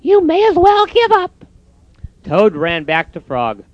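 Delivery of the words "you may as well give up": mocking robins. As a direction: tease him from the bush.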